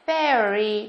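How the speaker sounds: "Fairy" with a clear air glide; AIR vowel. Shown as a demonstration. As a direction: model "Fairy" carefully with the air diphthong.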